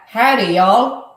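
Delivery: a tentative Southern twang on howdy y'all; attempted Southern accent. Shown as a demonstration. Host gamely trying a Southern accent on the album title. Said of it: "Okay, I'll try and do it".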